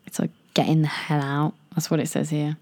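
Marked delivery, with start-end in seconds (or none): 0.5-1.5 near-whispered reading; hushed reading. Real, not acted. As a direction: read it out under the breath. Reading out the slang definition.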